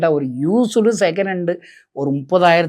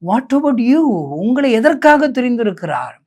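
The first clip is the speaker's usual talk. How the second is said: challenging call; 5 semitones higher, 4 dB louder than usual. Real, not acted. Preacher challenges the listeners.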